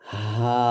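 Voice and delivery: হা light from the top of the throat, no pressure; Arabic letter demo. Shown as a demonstration. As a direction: breathe হা out gently. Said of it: "কোনো রকম চাপ হবে না". (চাপ ছাড়া হালকা হা)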